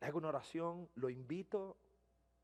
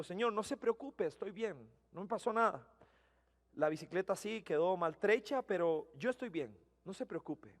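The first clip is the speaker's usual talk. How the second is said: reassuring; 4 dB quieter than usual. Retold or imitated. Reassuring the shaken driver.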